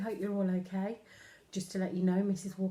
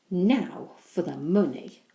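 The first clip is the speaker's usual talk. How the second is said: eager; 6 dB louder than usual. Acted. Henry eager.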